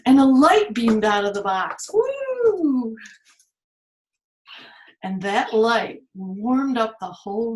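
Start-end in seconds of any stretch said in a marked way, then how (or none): 0.1-3.0 building excitement. Acted. Light beams out.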